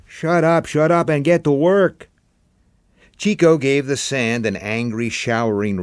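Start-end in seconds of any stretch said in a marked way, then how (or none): 0.1-2.1 higher, louder snapping shut-up; irritated order. A narrator's reading. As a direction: cut him off, annoyed. Chico cuts Tom off.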